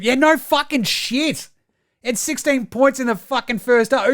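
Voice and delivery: high-pitched indignant rant; exasperated sarcasm. Real, not acted. Host scoffing at a pundit stating the obvious, exasperated.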